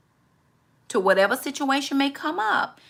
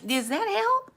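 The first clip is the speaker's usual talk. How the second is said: pointed question; 10 semitones higher, slower than usual. Real, not acted. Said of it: "That's not helpful".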